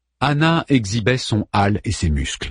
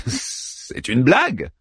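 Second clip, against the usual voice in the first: incredulous; 4 semitones higher, much slower than usual. Acted. Daeman baffled.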